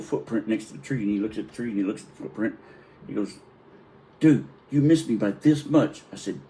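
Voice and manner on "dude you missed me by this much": slow, high, loud taunt. Retold or imitated. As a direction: tease him, drawn out loud. Brother taunting near miss.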